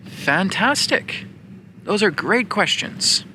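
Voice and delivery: high, slow, gushing praise; delighted praise. Acted. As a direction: lift way up and savor the praise. Praising the students' deep questions.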